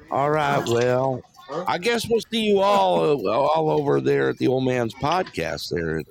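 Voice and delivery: lightly imitated co-host signing off; Eric. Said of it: "Let me do an Eric here".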